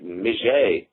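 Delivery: mijet, with zh in the middle, drawn out like French; French-sounding mijet. Shown as a demonstration. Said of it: "It almost sounds French".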